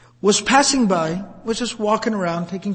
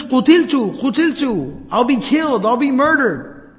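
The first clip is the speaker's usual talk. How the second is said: raised-pitch cry of alarm; mild mock panic, pitched up; acted freaking out; 4 semitones higher than usual. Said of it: "he's freaking out".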